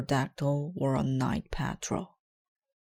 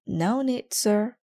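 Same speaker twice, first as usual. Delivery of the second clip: high officer voice; 7 semitones higher, 4 dB louder, slower than usual. Acted. Officer answers modestly.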